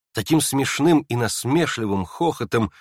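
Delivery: ordinary delivery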